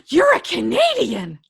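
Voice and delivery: playfully scandalized, stretched out; mock shock. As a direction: exclaim it like a scandalous discovery. Mock shock at Canadian reveal.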